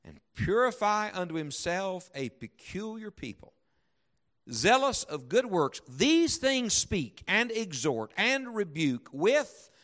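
slow, emphatic Bible reading; declaimed scripture, with deliberate pauses; solemn scripture reading. Acted. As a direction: read it out with weight, drawing out key words. Reads Scripture aloud emphatically.

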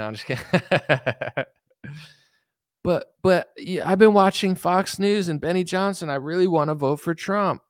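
ordinary talk, nothing marked

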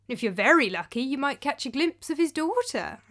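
sweetened voice. Acted. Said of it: "trying to sweeten my voice".

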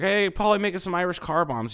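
high, loud jeering customer; mocking bro voice. Mimicking customers calling to the bartender, high jeering voice. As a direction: ham up the rowdy ordering.

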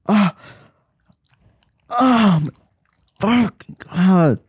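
high, loud drawn-out cry; loud outcry. Real, not acted.

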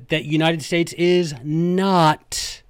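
slow, leaning hard on "not"; stress on not. Shown as a demonstration. Host reading the Federalist stresses "not" slowly. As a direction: make "not" the word that lands, slowly. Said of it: "emphasize not".

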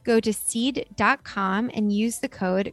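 measured, polished podcast ad read; sponsor ad read. Acted. Podcast host recommending Seed to listeners, measured ad read. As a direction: read it as a clear sponsor endorsement.

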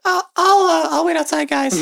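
lightly voiced blushing adventurer; embarrassed character. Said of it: "be like".

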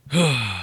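short, heavy sigh. Acted. Sighs while retelling the crash.

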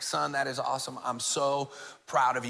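soft, tender praise; quietly proud, gently spoken; proud dad. Retold or imitated. Dad retells praising son.

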